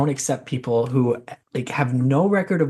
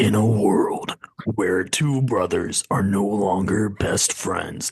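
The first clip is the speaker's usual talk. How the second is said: deep, slow, dramatic movie-trailer announcer voice; 6 semitones lower than usual. Giving predictions in the trailer announcer voice. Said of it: "Should I do all my predictions in like the trailer announcer voice?".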